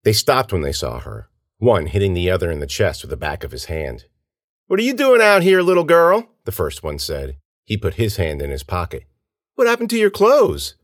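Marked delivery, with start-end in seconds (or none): 4.6-6.3 high, loud taunting call; jeering man. A narrator's reading. First man taunts the stranded girl, jeering. 9.5-10.8 high-pitched taunting question; jeering man. A narrator's reading. First man questions the torn-clothed girl, jeering.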